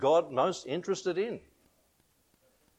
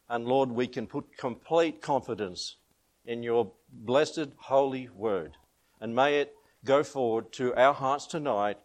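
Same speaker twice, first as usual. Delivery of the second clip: prayer. Real, not acted. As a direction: pray it humbly, unhurried. Pastor leads prayer.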